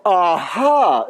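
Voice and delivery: a bright, lively aha; demo aha. Shown as a demonstration. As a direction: show them how to answer aha. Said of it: "your participation is?".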